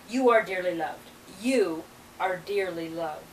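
measured, solemn blessing, slowing on the repeat; channeled-message reading. Acted. Cryon blessing each listener, solemn reading.

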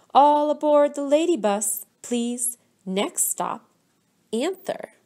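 conductor call. A narrator's reading. Teacher announcing like a conductor.

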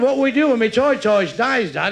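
a hint of a child asking; little lad. Lad asks his dad about his pet, lightly voiced child. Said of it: "Little lad says to his dad".

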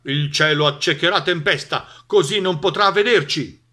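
loud, confident dog's proclamation; announcing dog. A narrator's reading. Dog reassures the others about lightning, announcing loudly. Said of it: "annunciò Cane".

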